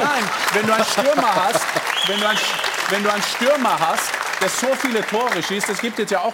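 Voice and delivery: German with a real English accent. Real, not acted. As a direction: native English speaker talking German. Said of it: "dass mein Deutsch da ein bisschen schlecht war".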